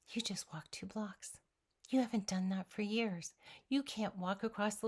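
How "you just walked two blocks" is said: hushed, awed whisper. Retold or imitated. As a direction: breathe it out in disbelief. Retells whispered self-talk.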